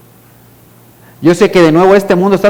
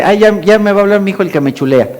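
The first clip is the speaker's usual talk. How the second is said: higher-pitched imitation of a sister; sister's teasing remark, lightly voiced; 4 semitones higher, faster than usual. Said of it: "está por ahí mi hermana y me dice".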